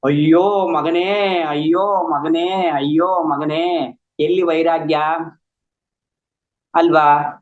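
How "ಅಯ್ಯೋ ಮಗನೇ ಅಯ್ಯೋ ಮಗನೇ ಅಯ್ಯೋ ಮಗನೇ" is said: slow, drawn-out imitated lament; slow mock wail for a lost son. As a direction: ham up a father's grief, slowly. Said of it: "ಶುರು ಮಾಡ್ಕೊಂಡ ಮತ್ತೆ".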